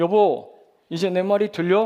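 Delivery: loud calling voice.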